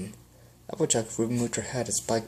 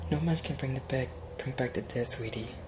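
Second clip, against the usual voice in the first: gentle comforting; 2 semitones higher, 4 dB quieter than usual. Acted.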